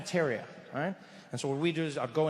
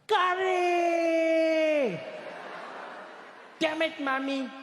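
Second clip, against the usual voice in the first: screaming at the top of lungs; 11 semitones higher, much slower than usual. Acted. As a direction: scream it like an outraged schoolboy, holding the vowel. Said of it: "scream at the top of his lungs".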